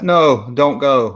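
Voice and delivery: drawn-out, slow mock plea; half-hearted plea. Streamer imitating him not really stopping her, half-hearted. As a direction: ask it without really trying. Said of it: "Like he's really not trying to stop her".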